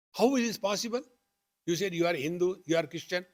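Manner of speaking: lightly voiced confused questioner; baffled stranger.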